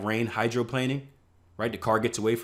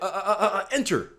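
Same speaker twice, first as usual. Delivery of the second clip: panicked revenge trade; 8 semitones higher than usual. Retold or imitated. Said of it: "now you're like".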